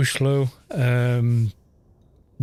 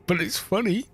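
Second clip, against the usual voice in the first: higher, giggling through the words; laughing it off; 7 semitones higher than usual. Retold or imitated. Ganker laughing off his own meanness, higher and giggly. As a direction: chuckle as you excuse yourself. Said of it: "But he would say".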